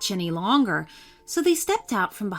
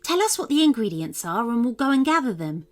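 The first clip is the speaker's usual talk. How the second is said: put-on higher, bright-eyed young unicorn voice; unicorn Tiff's voice; 4 semitones higher, faster than usual. Tiff the unicorn to Rebecca, hungry for soup, pitched-up unicorn voice.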